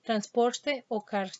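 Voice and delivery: Transporte o carne said slowly with the r sounds stressed; slow Andean demo with marked r in carne; highland strong R. Shown as a demonstration. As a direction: drag out and lean on the r in Transporte and carne. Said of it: "la pronunciación acentuada de R".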